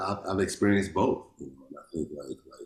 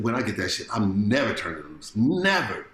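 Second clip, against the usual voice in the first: mildly fierce quote, final never pitched up; retold ferocity. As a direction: imitate firm insistence, landing hard on never. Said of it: "he was ferocious about it".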